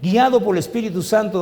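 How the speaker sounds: alto y fuerte, exhortando; llama a la congregación con fuerza; predicación intensa. Acted. (predicación a voz alzada)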